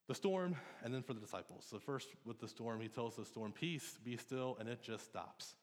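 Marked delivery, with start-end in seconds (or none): 3.5-4.6 calm command. Acted. Jesus calming the storm, quoted.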